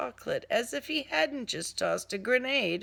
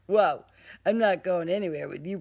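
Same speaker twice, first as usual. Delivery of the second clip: loud refusal; 6 dB louder, faster than usual. Acted.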